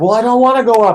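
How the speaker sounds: shrill, very high, loud shout. Retelling a couple on the other ridge yelling at each other: imitating someone yelling. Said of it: "yelling at each other".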